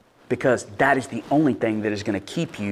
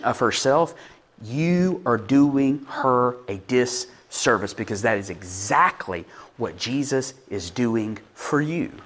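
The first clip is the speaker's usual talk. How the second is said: slow, softer sincere appeal; 4 dB quieter, slower than usual. Real, not acted. Preacher bluntly urging husbands, slow and soft. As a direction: speak it slowly and earnestly.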